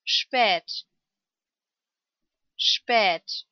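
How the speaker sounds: long, held ä in "Spät". Shown as a demonstration. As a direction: say "Spät" with a drawn-out ä vowel. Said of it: "Lang ausgesprochen".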